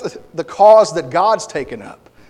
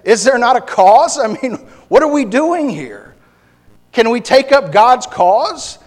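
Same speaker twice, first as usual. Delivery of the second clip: raised, higher challenge; David's rallying cry; 6 semitones higher, 5 dB louder than usual. Retold or imitated. Preacher voicing David after killing Goliath, raised and high. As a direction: stir the troops to action. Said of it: "he says".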